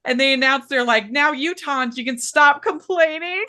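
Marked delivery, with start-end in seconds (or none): 1.1-3.4 higher-pitched teasing scold; mock announcement. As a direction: playfully quote a scolding to fans. Retold announcement chiding eager fans.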